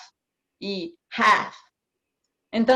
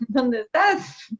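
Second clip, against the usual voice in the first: mock wrong grammar; 6 semitones higher, 3 dB louder than usual. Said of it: "Algo así como para nosotros".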